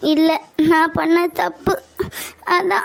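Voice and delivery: halting, tearful apology; crying. Acted. Girlfriend admitting her mistake to boyfriend, crying. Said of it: "ஏன் இப்ப அழுற தேவையில்லாம?".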